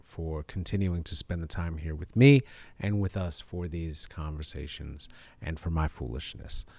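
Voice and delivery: low, soft, heartfelt thanks; sincere. Real, not acted. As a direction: speak from the heart, quietly. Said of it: "in the most sincere, uh, fashion".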